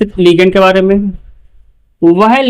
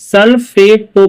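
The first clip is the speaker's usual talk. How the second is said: slow teaching; much slower than usual. Shown as a demonstration. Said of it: "क्या पढ़ेंगे?".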